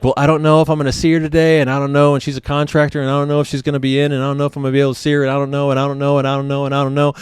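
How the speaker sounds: high, rapid run-on drone; mocking runaround. Mimicking the assistant's endless excuses.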